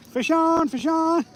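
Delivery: sudden high excited call. Real, not acted. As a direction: call out the bite, thrilled. Sudden bite while rigging.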